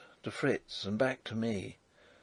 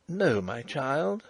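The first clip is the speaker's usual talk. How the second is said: softly; 2 semitones higher, slower than usual. Acted. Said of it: "said Flavia softly".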